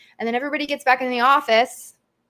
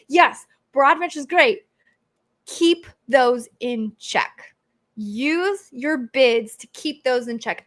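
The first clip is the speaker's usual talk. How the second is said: slow, pressing "keep those in check"; emphatic warning; slower than usual. Real, not acted. Host warning viewers about broad match, slow emphatic. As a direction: drive the warning home word by word. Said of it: "you can hear the emotions in my voice".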